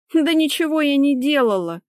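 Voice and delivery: high, loud, huffy denial; offended snort. A narrator's reading. Accused wife denies it all, high offended huff. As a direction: deny it with hurt indignation. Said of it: "фыркнула обиженно Лика".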